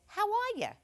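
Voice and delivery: "How are ya?" run together, "ya" clipped Jersey style; mock child's voice saying "ya" like a Jersey local. Comic correcting her quote of the stall voice, "How are ya?" said Jersey style. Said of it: "Actually, they didn't say, "How are ya?".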